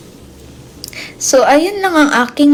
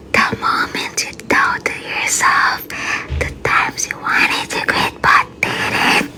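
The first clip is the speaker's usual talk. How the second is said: soothing voice; 7 dB quieter than usual. Shown as a demonstration. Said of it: "nagpa-practice lang ako paano yung soothing voice".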